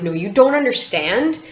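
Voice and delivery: mock-frantic shout at dad; panicked demand. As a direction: beg him desperately to stop the car.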